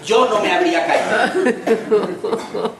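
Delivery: slow, drawn-out smug boast with a laugh; lightly voiced gloating bystander; smug mock superiority. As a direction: savour the mock pride, slow and amused. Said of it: "El proceso mental es el siguiente".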